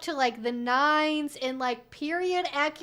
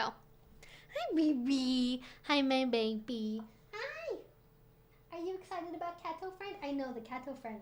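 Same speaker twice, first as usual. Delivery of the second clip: doting dog-talk voice; 2 semitones lower, 9 dB quieter than usual. Real, not acted. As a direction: coo at the little dog with mock hurt feelings. Cooing at her dog again.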